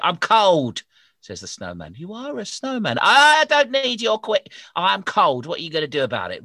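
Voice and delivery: loud, high, gruff demanding snowman; grumpy snowman. Acted. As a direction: bark like a bossy snowman.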